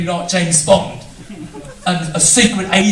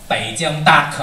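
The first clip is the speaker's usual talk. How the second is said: mock Chinese accent; 3 semitones lower than usual. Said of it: "whenever I talk like this".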